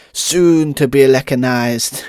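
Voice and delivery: put-on slow Scouse accent, lightly done; a half-hearted Liverpool drawl. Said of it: "Terrible Scouse accent".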